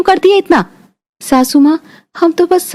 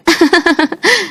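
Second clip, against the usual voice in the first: light laugh; 3 semitones higher than usual. Real, not acted. Friends laugh.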